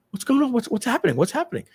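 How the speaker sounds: high-pitched mock flurry of questions; alarmed onlookers. Salespeople walking up to a colleague in trouble, mock alarm. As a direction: imitate staff clamoring to find out.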